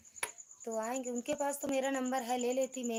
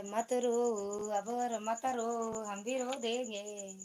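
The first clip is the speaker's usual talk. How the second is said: slow, drawn-out mock pleading; playful consoling; much slower than usual. Streamer consoling tearful viewers, threatening to cry too, playful drawn-out pleading. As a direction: stretch the words out as if coaxing a crier.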